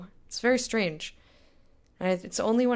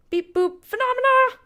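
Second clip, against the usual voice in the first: robot voice; 8 dB louder than usual. Pretend. Greeting viewer playfully.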